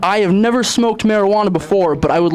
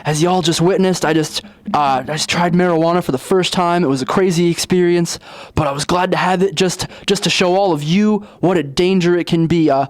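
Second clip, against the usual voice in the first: news reporter; 2 semitones lower than usual. Acted.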